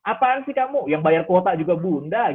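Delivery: hammed-up defensive scolding; mock angry mother. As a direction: play the mom who turns the scolding on her kid. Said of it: "berbalik marah gitu kepada anak".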